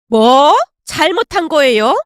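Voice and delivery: loud, incredulous first word; indignant echo. Acted. Mother-in-law repeating daughter-in-law's question, indignant. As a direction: throw the question back angrily.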